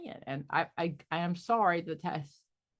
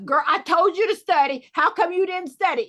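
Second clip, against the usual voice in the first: playful mock scold, louder and higher; 8 semitones higher, 8 dB louder than usual. Coach playfully scolding a client who didn't study, mock anger. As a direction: pretend to tell her off, half-joking. Acting out being mad at client.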